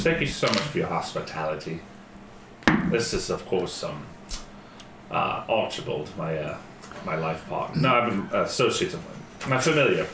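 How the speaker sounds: lightly voiced polite wizard; character voice. Player voices her character.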